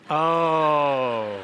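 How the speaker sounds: loud, drawn-out "oh" of getting it; mock the penny finally dropping, loudly; belated realisation. Listeners getting the joke driving home, mock sudden realisation. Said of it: "people right now driving home getting it".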